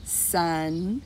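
"Sunglasses" slowly as Sun, gla, sses; three separate beats in "Sunglasses", long gaps between; split into syllables. Shown as a demonstration. Teacher lets preschoolers listen for parts, "Sunglasses" split in three. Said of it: "Let's count them".

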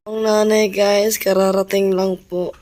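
calling out loud. Real, not acted. Calling out, mother arrives. (malakas na pagtawag)

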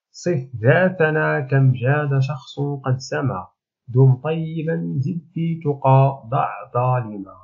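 slow, measured reading of verse; verse recitation. Shown as a demonstration. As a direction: recite the couplet slowly, word by word. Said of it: "نقرأ البيت أولًا". (قراءة بيت شعر ببطء وتأنٍّ)

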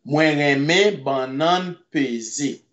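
"Mwen reme banan peze" said slowly, each syllable clear for learners; slow it down so students catch "Mwen reme banan peze"; slow careful repeat. Shown as a demonstration. Creole teacher slowing "Mwen reme banan peze" for the class.

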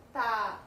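"Tarefa" built up as Ta, re, fa with pauses; syllable by syllable. Shown as a demonstration. Teacher forming a new word for children, "Tarefa" syllable by syllable. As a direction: say "Tarefa" in three separate syllables. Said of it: "Qual é a palavra que eu vou formar".

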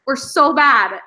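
slow, drawn-out groan of defeat; mock despair. After losing another challenge, slow defeated moan. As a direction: drag it out like you've given up. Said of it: "And it was like".

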